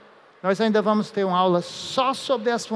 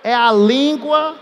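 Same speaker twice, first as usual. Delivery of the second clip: slow, higher, teasing suggestive tone; 3 semitones higher, 3 dB louder, slower than usual. Shown as a demonstration. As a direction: let it sound cheeky and slow. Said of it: "Nunca mais vocês vão esquecer". (tom malicioso, lento e mais agudo)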